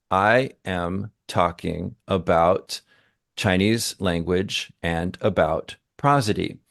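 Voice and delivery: slow, level, expressionless delivery; prosody stripped away. Shown as a demonstration. Teacher demonstrating speech without prosody, slow and flat. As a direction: drain every bit of feeling out, slowly. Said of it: "if I take all that away".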